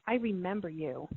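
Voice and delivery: soft and choked, barely above a breath; tearful hush. Retold or imitated. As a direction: say it quietly, as if tears are starting. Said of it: "I started crying, going".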